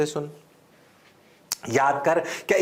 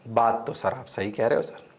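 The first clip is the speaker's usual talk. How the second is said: mock student; 9 semitones lower, 5 dB quieter, faster than usual. Voices student agreeing.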